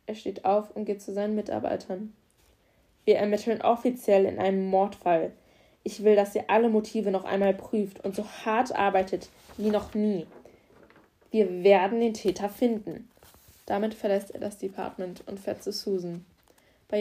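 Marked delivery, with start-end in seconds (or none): 3.0-13.1 louder, firm orders to the team; rally the squad; commanding address. Acted. Officer to his men, firm and loud.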